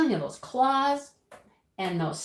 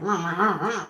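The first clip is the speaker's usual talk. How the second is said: mock rooster squawks, quick bursts; imitated angry rooster noises; 4 dB louder than usual. Storyteller imitates Rowdy's noises as he's held, mock squawking. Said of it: "Rowdy's making all these noises".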